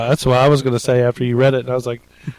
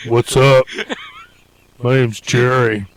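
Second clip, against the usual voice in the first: smooth pickup guy. Pretend. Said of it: "Be like".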